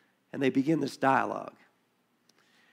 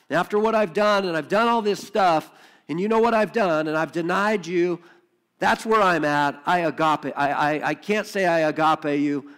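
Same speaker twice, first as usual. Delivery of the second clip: Peter's pleading confession; 4 dB louder than usual. Acted. Peter confessing to Jesus after denying him, pleading. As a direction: pour out the guilt to Jesus.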